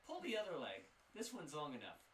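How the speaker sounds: high, sceptical shopkeeper voice; scoffing shopkeeper. Acted. Shopkeeper scoffs at the party calling themselves town owners, high and sceptical. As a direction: laugh off their claim of owning a town.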